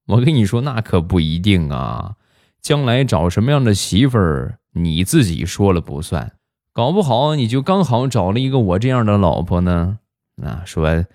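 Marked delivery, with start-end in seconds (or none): 0.0-10.0 lightly voiced smug retort, no real laugh; amused mother. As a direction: needle the son playfully, imitating his mom. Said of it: "地雷媳妇儿笑着就说".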